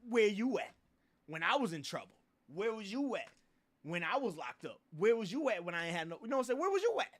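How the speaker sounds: indignant where-were-you challenge, ending high; rising challenge. Real, not acted. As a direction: call them out, building to a high, loud peak. Calling out absent fake friends.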